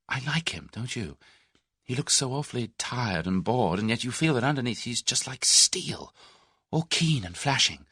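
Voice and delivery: reflective. A narrator's reading. Young woman musing to Tommy about Mister Carter, reflective. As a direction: muse aloud about the man you just met. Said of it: "Then she added reflectively".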